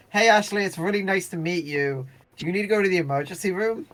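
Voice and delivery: a sweet, worried mom greeting a guest; ex's mother. Retold or imitated.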